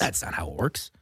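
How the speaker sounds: whispered aside. Real, not acted. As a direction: whisper it under your breath. Aside after bad casting.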